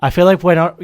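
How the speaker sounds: real hyper yell. Real, not acted. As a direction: shout it out to the room. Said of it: "I don't know why I'm yelling".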